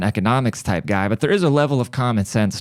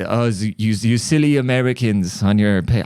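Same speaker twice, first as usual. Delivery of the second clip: put-on German accent. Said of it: "I can't even do a German accent".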